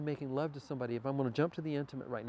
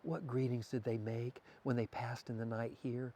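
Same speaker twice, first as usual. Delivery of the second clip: soft, unhurried murmur; lightly hushed, intimate questioning; hushed bedtime whisper; 2 semitones lower, 5 dB quieter, slower than usual. Shown as a demonstration. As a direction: murmur it gently to someone waking. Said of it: "These are the things I whisper".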